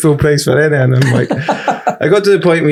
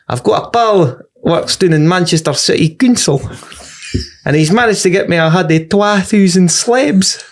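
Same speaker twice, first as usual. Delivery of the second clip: imitating Fife man; 5 semitones higher than usual. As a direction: mimic the boastful Fife regular. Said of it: "And he went".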